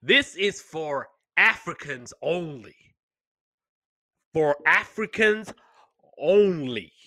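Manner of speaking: slow, emphatic proclamation, words spaced apart; mock-militant orator impression; Dr. Umar Johnson. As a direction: declare it slowly, pausing before the final word. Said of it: "I was like, "Doctor Umar Johnson".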